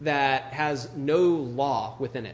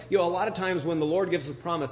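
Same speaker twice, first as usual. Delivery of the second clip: ordinary talk, nothing marked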